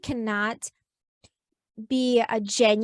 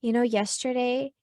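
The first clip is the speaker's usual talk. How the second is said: gentle apology. Shown as a demonstration. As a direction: apologize tenderly to your kid. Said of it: "go back to your kids and say".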